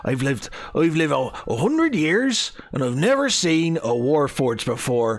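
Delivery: high, wondering hobbit voice; amazed halfling inventor. Acted. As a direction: marvel at a once-in-a-lifetime sight.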